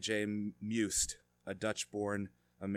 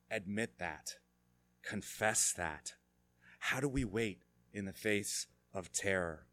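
normal talking voice

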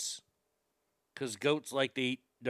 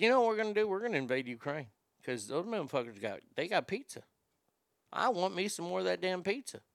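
scheming hush; 7 dB quieter, faster than usual. Retold or imitated. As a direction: let them in on the secret plan. Putin plotting invasion with his boys.

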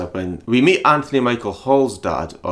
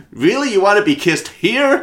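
mock suave guy; 11 semitones higher, 5 dB louder than usual. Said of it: "he's like".

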